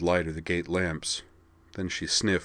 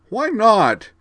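higher, louder demand; 10 dB louder than usual. Acted. Vigdis, angry and teary, demanding of Corwin. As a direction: demand an answer. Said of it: "she demanded".

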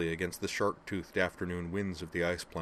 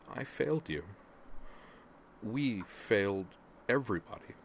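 weeping; 3 semitones higher than usual. Acted. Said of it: "genuinely weeping".

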